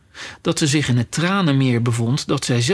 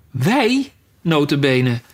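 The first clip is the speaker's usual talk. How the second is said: indignant cry; slower than usual. Acted. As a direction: burst out as an affronted mouse. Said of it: "schreeuwde de muis".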